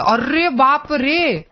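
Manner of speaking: shocked gasp. Real, not acted. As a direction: stretch it slowly in disbelief. Bad landing, shocked exclamation. (धीमा, खिंचा हुआ हैरान "अरे बाप रे")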